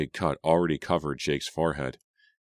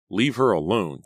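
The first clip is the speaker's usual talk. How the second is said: louder firm command; demanding; 5 semitones higher, 6 dB louder than usual. A narrator's reading. Raised stern order. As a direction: Jake facing Danny down, loud and firm. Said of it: "Jake demanded".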